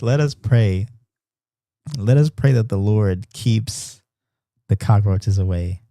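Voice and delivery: slow, measured mock-preacher delivery; mock solemn prayer. Streamer leading chat in prayer against cockroaches, mock solemn. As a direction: lead a playful prayer with deliberate pacing.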